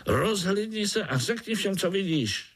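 high, eager little voice rallying the others; high-pitched spider cheerfully calling his friends. Acted. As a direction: call out to the spiders as a small hero. Pája asks the spider.

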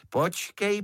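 a threat on the rise; warning. Acted. Mother threatens to tell on the beetle, rising warning. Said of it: "já to všecko povím".

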